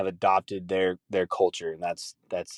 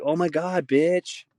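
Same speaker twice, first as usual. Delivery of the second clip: put-on higher-pitched gushing girlfriend voice; mock girly girl; 7 semitones higher, slower than usual. Girl greeting her girlfriend, mock gushing. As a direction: imitate a girl squealing to her friend. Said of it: "girls who call each other bitch".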